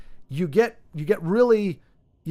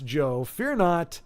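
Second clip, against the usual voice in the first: gentle reassurance; much slower than usual. Real, not acted. Reassuring viewer Joe that he need not worry, slow and gentle. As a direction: ease it down calmly to Joe.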